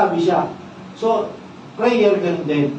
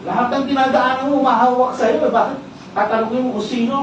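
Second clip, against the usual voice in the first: mildly sarcastic; 3 semitones higher than usual. Retold or imitated. Disciples replying to Jesus about who touched him, mildly sarcastic. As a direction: imitate an understated, disbelieving retort. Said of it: "Sarcastic yung sagot ng".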